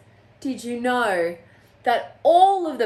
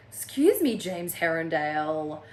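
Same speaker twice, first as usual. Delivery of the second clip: indignant scolding; 4 semitones lower than usual. Real, not acted. Reader scolding James over the scene, indignant. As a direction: call the character out, appalled.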